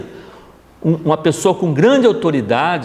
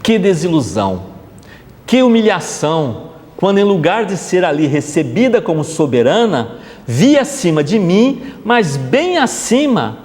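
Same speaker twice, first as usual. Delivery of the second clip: building, slowing, rising toward a climax; reading continued; 3 semitones higher than usual. Acted. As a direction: let the queen's humiliation swell as you read. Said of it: "Vamos continuar".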